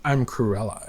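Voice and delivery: lightly put-on British accent. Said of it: "in the British accent".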